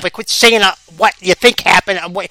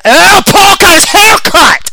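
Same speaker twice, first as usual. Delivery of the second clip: surprised exclaim; 11 semitones higher, 5 dB louder, much slower than usual. Real, not acted.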